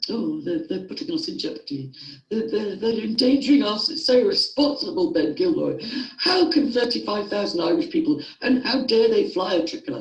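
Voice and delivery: high, loud, hammed-up outraged voice; mocking huffy critics. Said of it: "before you get all huffy and puffy".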